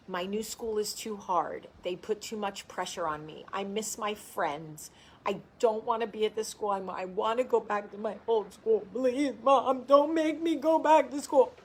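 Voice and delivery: hammed-up sob of a nine-year-old begging her mom; imitating crying child. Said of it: "Heartbreaking tears".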